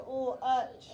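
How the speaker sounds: "lunch" said as "lutch", N left out; wrong-spelling demo, "lunch" with no N; mispronounced without N. Shown as a demonstration. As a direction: drop the N from "lunch". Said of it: "Now, if I did lunch".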